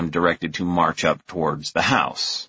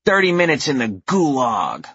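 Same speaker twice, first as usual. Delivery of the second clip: put-on stern little girl; 7 semitones higher than usual. A narrator's reading. Girl pronouncing sentence.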